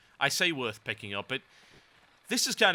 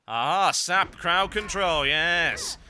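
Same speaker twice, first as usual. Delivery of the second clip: gleeful aha; 6 semitones higher, 5 dB louder, much slower than usual. Real, not acted. Gleeful gameplay exclaim.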